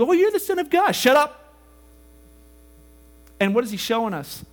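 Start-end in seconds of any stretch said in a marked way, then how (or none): 0.0-1.0 mock demon. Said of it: "some demon wants to talk to him". 1.0-1.5 sharp rebuke. Retold or imitated. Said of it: "He's like".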